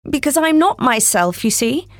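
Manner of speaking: put-on timid little girl, halting at first; shy girl voice. Alice's voice in story.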